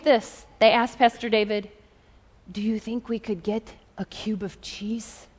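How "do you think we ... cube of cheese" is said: timid request. Retold or imitated. Humble pastors timidly asking for food.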